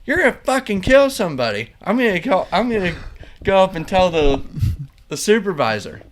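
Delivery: high, loud threatening yell; imitated angry threat. Pirate threatening to report the kid to the supervisor, loud angry yell. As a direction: bark the threat like a furious snitch. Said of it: "He's like".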